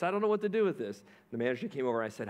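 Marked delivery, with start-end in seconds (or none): 0.0-1.0 quick, high mock call, repeating herself; faster retold yell. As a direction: rush the repeat, still calling out. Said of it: "She yelled over to the manager".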